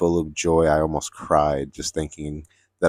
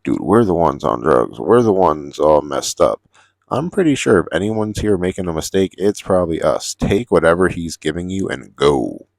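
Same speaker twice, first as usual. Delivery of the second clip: raised, insistent voice, pushing him to drop it; urging friend loudly; 5 dB louder than usual. Retold or imitated. To his arguing friend, a loud insistent plea. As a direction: talk him down firmly and loud.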